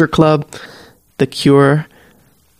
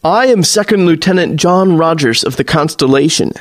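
proud announcement; 2 semitones higher than usual. Acted. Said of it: "Navy announces, lifting his chin proudly".

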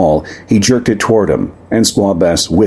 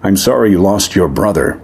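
gentle. Acted. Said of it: "Ash interrupted gently".

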